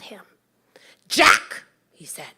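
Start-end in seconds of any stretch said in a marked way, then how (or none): 1.1-1.6 loud, higher call of the name. Acted. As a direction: call him sharply from across the yard. Mother calling her son.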